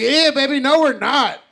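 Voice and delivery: high, loud mock objection; emphatic correction. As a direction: act out contradicting a girlfriend. Loudly correcting girlfriend in retelling.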